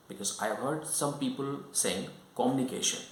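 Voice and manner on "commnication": "communication" with the "you" sound lost after the m; mispronounced "communication", its middle squashed; incorrect pronunciation. Shown as a demonstration. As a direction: say "communication" wrongly, as "comm-nication". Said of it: "which is incorrect".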